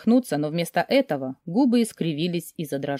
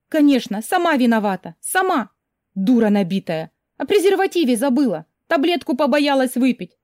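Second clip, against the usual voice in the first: self-reproach; 6 semitones higher than usual. Acted. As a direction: scold yourself for being stupid. Self-reproach inner monologue.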